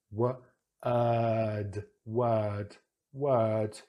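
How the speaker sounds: word with a long er, jaw dropped; model word. Shown as a demonstration. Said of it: "we drop the jaw".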